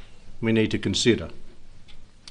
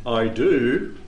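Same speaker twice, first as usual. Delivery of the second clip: God's reply. Acted. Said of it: "What's God's reply?".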